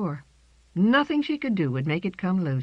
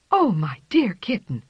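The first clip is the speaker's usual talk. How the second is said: tender whispered greeting; 4 semitones higher, 5 dB louder than usual. Acted. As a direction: breathe it to her lost kitten. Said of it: "talked in whispers".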